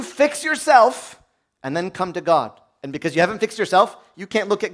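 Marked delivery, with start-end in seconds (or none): 0.0-2.6 devil's whisper. Retold or imitated. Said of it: "what the devil tells you".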